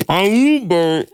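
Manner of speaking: solemn funeral speech; eulogy voice. Pretend. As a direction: deliver a eulogy. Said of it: "do my funeral".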